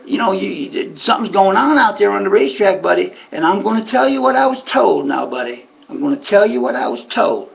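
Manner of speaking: imitated southern accent, pitched a little high; lightly exaggerated southern confidant; Ray's southern accent. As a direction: play a southern owner reluctantly passing on a warning. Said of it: "talk with that southern accent".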